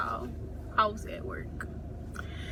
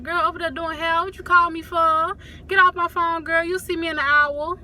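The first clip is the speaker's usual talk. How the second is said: higher-pitched imitation of a hurried mama; rushing off the phone; 5 semitones higher than usual. Mama hurrying her daughter off the phone, mock impatience. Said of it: "just rushing me off the phone".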